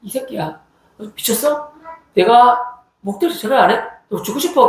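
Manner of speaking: understated re-enacted scolding; retold cursing threat. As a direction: act out advancing on him with curses. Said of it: "목탁을 들고 욕을 하면서 갔죠".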